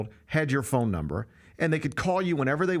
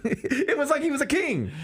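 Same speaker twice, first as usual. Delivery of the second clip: laughing through the words, higher and amused; real giggle at the king line; amused laughter carries the phrase; 11 semitones higher than usual. Real, not acted.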